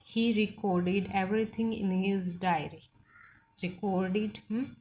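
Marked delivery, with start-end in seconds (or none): 0.1-2.8 He recorded everything in his diary read out very slowly; slow example sentence. Shown as a demonstration. Teacher reads the verb example slowly for the class. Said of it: "वो verb की तरह काम करेगा".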